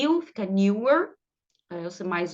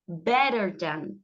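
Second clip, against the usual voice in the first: slow teaching demo; 4 semitones lower, much slower than usual. Shown as a demonstration. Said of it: "teacher models the word slowly".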